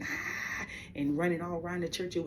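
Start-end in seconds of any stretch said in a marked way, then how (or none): 0.0-0.7 imitated holler. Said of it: "they hollering".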